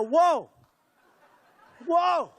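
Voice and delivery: mock shock. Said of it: "reacting to the clip".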